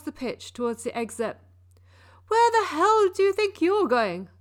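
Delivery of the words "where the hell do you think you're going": much higher, much louder furious yell; barking gym coach. Acted. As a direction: bark it at a player walking off. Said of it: "Coach yelled".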